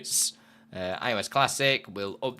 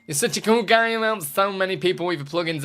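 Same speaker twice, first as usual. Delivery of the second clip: mock praise; 6 semitones higher, 3 dB louder than usual.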